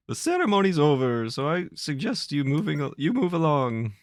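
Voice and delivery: high, smug dismissive official; sneering villain voice. Acted. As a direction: brush him off with contempt. Voicing the evil Chancellor.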